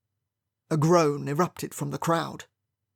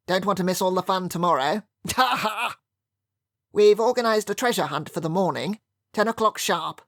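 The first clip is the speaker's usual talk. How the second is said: jovial Colonel with laugh; 4 semitones higher than usual. A narrator's reading. The Colonel announcing the treasure hunt to guests, hearty and jovial. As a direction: boom out the plans like a cheerful host.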